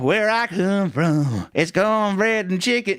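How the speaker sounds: slow, hammed-up country boy voice; mock Southern drawl. Host imagining himself in boots, mock Southern drawl. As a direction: play a cowboy in new boots, drawn out. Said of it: "wanted to get some fucking boots on and be like".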